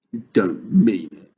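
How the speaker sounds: put-on slow, stunned little girl; a girl horrified at the screaming plants; shocked cry. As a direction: gasp it out in disbelief. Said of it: "Sophie cried".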